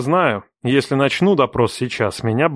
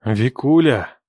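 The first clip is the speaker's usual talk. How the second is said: mildly coaxing pet name; affectionate; slower than usual. A narrator's reading. Man addresses his ex-wife before threatening her, affectionately. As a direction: call her tenderly. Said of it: "Так ласково позвал я".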